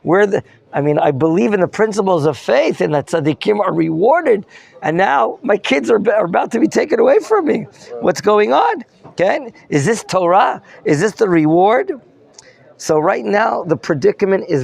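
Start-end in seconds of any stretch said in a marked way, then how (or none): 0.0-12.0 lightly voiced protesting widow, rising higher as it builds; indignant claim. Teacher voices widow questioning her lost reward, mildly indignant protest. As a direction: plead the injustice, building into higher-pitched questions. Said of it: "maybe she's claiming".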